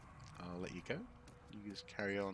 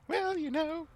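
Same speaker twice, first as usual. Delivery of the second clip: much higher, louder plummy grande dame; duchess voice; 7 dB louder, slower than usual. Pretend. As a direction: play an imperious duchess. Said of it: "I just sound like a duchess".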